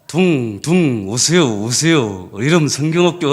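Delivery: reluctant slow call through gritted teeth; grudging through teeth. Retold or imitated. Young teacher calling kids while resenting it, grudging gritted-teeth call. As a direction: drag the words out resentfully. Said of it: "이를 걸면서".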